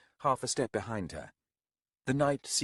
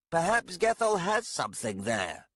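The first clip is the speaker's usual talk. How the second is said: higher, wry remark; dry observing voice; 9 semitones higher than usual. Acted. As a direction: drily offer the thought. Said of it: "Gathras observed".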